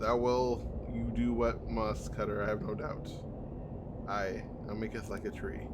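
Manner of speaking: hint of a lofty old tree speaking; solemn tree voice. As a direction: read it as an old forest spirit. Tree dialogue continues.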